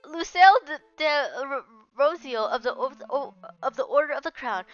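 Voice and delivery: a noble knight pledging her sword; solemn knight. Acted. Voices the knight's oath.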